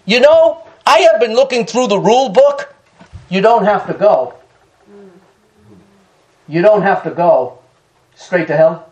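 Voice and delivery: lightly voiced calm president, dry and unbothered; calm Coolidge. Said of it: "Coolidge looked up from his book and said calmly".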